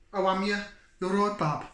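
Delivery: a light Black Country greeting; brief put-on Black Country accent. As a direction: slip into a Black Country accent for a cheery hello. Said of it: "Sorry for the accent".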